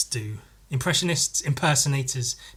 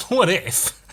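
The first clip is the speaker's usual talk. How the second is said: mock impressionist; 6 semitones higher than usual. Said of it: "they go like".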